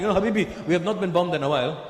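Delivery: imitated Arab host in Lebanese English; mock Lebanese accent, breezy and excited. Arabs deciding to use the bomb shelter, Lebanese accent. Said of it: "They're like".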